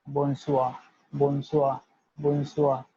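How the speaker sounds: bonsoir said as "bon-swah", final r dropped; French bonsoir drill. Shown as a demonstration. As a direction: model bonsoir for the class. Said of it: "will be delivered as".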